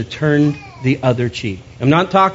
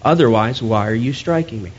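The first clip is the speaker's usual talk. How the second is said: a touch softer and calmer, a gentle reply to a blow; calm soft answer; 2 semitones lower than usual. Retold or imitated. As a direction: answer the slap quietly, without heat. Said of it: "very calmly and softly said".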